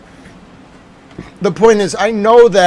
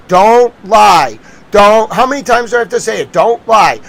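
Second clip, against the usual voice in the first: exasperated scolding; 6 dB louder, slower than usual. Real, not acted. Lecturing repeatedly not to lie.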